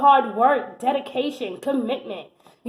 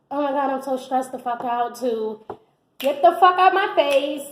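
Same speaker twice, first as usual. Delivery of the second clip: mock stressed rant. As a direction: play someone fed up and frazzled. Acting a stressed-out person.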